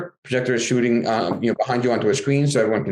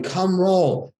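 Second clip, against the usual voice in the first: mock kids yelling; 6 semitones higher than usual. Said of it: "Now they're all yelling".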